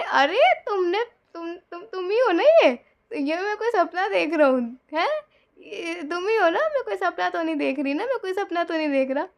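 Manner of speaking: high, loud disbelieving questions; can't believe it's really her; stunned disbelief. Retold or imitated. Shocked husband asking if he is dreaming, high and disbelieving.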